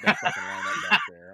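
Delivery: high, amused exclamation; excited. Real, not acted. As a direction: point it out with glee. Mocking the guest lineup.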